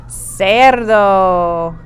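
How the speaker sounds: cerdo said clearly as SER-doh; model word. Shown as a demonstration. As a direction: give cerdo slowly, rolled r. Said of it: "Can everybody say cerdo?".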